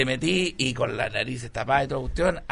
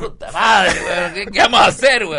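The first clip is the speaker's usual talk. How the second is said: in ice cold water; 5 semitones higher, 7 dB louder than usual. Acted. Panicking in freezing water.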